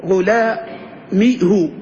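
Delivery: غلامه drawn out very slowly as ghulamihu, ending in u; غلامه pronounced slowly with the old hu ending; original pronunciation. Shown as a demonstration. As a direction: stretch out غلامه with a final hu. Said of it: "إحنا قلنا شو أصلها".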